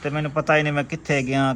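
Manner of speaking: tearful telling. Real, not acted. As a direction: voice catching with real tears. Injured man telling of accident. (ਰੋਂਦੇ ਹੋਏ ਹਾਦਸਾ ਦੱਸਣਾ)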